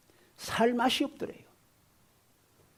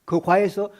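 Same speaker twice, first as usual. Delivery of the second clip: ordinary talk, nothing marked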